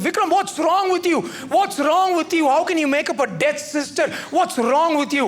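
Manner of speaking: lightly hammed-up parental telling-off; mock scolding. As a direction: scold him like a fed-up parent. Angry parent scolding son.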